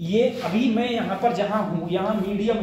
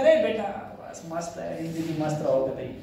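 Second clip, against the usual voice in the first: imitated aunt; 4 semitones lower than usual. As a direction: play the unbothered aunt, drawing it out. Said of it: "चाची कह रही होती है". (चाची की हल्की नकल, आराम से)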